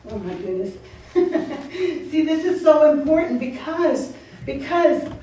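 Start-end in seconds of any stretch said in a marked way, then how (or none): none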